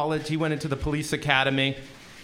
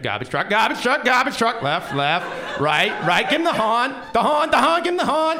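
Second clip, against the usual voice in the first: louder and higher, urgent calls; frantic navigator shouting; 6 semitones higher, 6 dB louder than usual. Retold or imitated. Friend shouts directions at the blind driver, loud and urgent. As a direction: yell warnings from the passenger seat.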